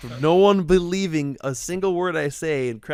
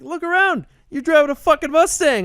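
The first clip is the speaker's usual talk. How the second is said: high-pitched, loud mock tirade; retold angry berating; 13 semitones higher, 7 dB louder than usual. Stranger berating the Mustang driver, angry. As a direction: imitate an exasperated stranger yelling the obvious.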